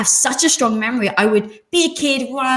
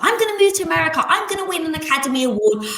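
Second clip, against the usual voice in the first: put-on dreamy kid; 7 semitones higher, faster than usual. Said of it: "one of those people that's like".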